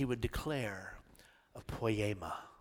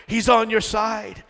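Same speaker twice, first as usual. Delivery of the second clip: higher, louder, slower insistence; louder emphatic; 10 semitones higher, 15 dB louder than usual. Acted. Preacher repeating to the church, louder and insistent. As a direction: drive it home with force. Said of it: "repeated louder".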